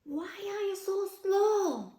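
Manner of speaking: high, lightly voiced monkey; a cheeky jungle monkey asking; howler monkey voice. Howler monkey asks the sloth.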